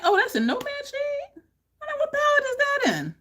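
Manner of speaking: high, fast, eager questions; eager excitement. Retold or imitated. Vlogger asking where a shade came from, high eager gushing. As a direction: gush as you ask.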